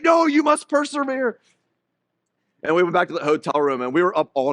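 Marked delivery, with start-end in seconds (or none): 0.0-1.4 high, slow mock-grand command; hammed-up stern father insisting; dad to son, mock heroic persevere; mock-solemn order.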